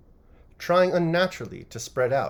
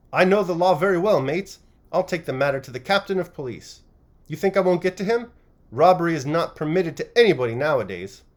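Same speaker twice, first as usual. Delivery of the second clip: higher, loud indignant yelling; defiant shout; 5 semitones higher, 6 dB louder than usual. A narrator's reading. Publican shouting defiance at the workmen surrounding him, angry. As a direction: stand your ground and shout them down. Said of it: "shouted the publican".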